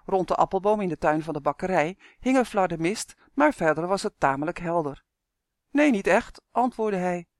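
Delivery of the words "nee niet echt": raised voice into the receiver, a touch louder; boy answering loudly on a bad line; loud on the phone. A narrator's reading. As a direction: speak up so mom can hear. Son answers mother on phone.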